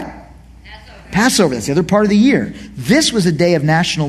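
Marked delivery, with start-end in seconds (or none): 0.0-1.1 whispered prompt. Shown as a demonstration. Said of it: "feast of what?".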